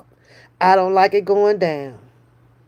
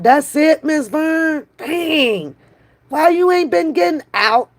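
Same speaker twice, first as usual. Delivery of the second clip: a rapper's voice; 7 semitones higher than usual. Retold or imitated. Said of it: "in a rapper's voice".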